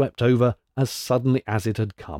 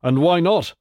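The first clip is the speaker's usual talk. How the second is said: higher, sharp challenge back; hero's cry; 5 semitones higher, 4 dB louder than usual. A narrator's reading. Hercules answering the giant's mockery, crying out. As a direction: cry it out defiantly. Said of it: "cried Hercules".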